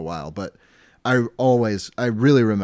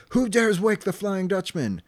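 high, booming ghost captain voice; Flying Dutchman; 11 semitones higher than usual. Retold or imitated. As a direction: growl it like an ancient undead sea king. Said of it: "uh, he says".

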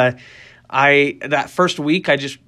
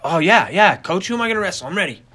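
keen, game reply to the coach; eager reply; 4 semitones higher, faster than usual. Retold or imitated. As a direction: imitate an eager young athlete, pitch jumping up. Retelling eager answer to coach.

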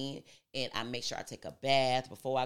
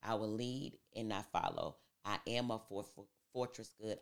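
affirmation recital; 2 semitones lower, 3 dB quieter than usual. Acted. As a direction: recite affirmations with deliberate pauses.

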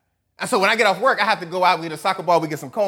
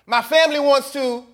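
whiny selfish voice; 8 semitones higher, 4 dB louder than usual. Pretend. Selfish desires voiced aloud.

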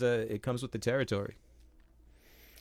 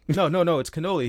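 higher, louder quick-fire protest; insistent wife; 5 semitones higher, 5 dB louder than usual. Retold or imitated. Wife correcting her husband about cannoli, mock insistent. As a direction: imitate a wife firmly contradicting.

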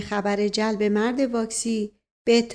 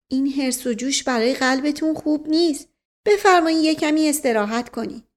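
lightly voiced woman, higher pitch; solicitous woman figure; 5 semitones higher than usual. Woman taking the uncle's arm to rest, lightly voiced and solicitous. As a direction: urge rest with gentle insistence.

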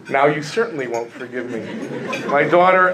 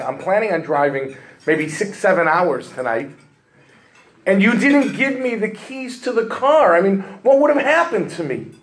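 rising high and exasperated on "you didn't give me the keys to the car"; exasperated complaint; 5 semitones higher than usual. Retold or imitated. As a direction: let the frustration spill over, climbing higher. Complaint boils over on phone.

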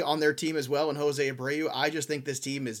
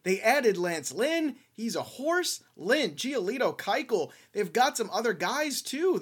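higher, lively hype for the roster; excited; 5 semitones higher than usual. Real, not acted. Host pitching the White Sox over, excited. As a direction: sell it like a fan. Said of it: "I'm finally excited".

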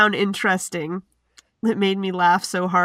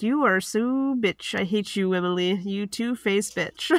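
quiet seething; 7 dB quieter than usual. Retold or imitated. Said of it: "I was like".

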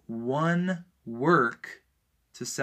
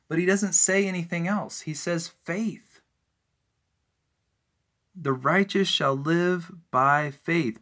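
higher and louder, pressing each point; preaching at full force; 3 semitones higher, 4 dB louder than usual. Real, not acted. Preacher rebutting Catholics, preaching at full force. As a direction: drive it home like a pulpit preacher.

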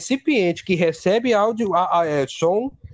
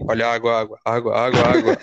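very low, monotone repeated call; water seller; 9 semitones lower than usual. Retold or imitated. Water vendor at the cathedral, low droning call. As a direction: drone the word like a bored hawker's loop. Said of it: "Aí ele ficava assim".

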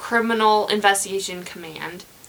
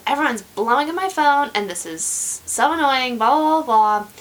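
retold irritation, pitched up in bursts; rude, annoyed; 4 semitones higher, faster than usual. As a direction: mimic someone rudely griping at being bothered. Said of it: "he was kind of rude about it".

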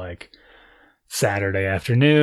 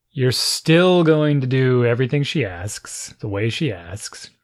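stern parent; slower than usual. Retold or imitated. Parent orders son to follow the teacher, slow and firm. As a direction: lay down the rule word by deliberate word.

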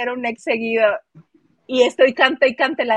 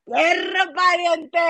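put-on northern Mexican accent; 6 semitones higher, much slower than usual. Echoes the plebuelo greeting.

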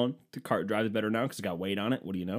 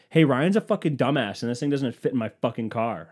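rubbing it in; 3 semitones higher, 6 dB louder than usual. Retold or imitated. Partner phoning her dad to tattle, mock gloating. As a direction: announce the blunder loudly, imitating a gloating partner. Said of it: "just to fucking rub it in".

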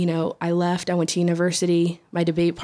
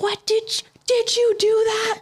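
much higher, startled question; shocked teammates. Retold or imitated. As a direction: gasp it out as stunned teammates. Team reacting in shock.

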